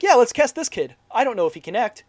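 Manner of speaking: loud, high mock enthusiasm; careless director. Director choosing an actor, breezy mock eagerness. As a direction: blurt it gung-ho, imitating a clueless director. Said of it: "and he's like".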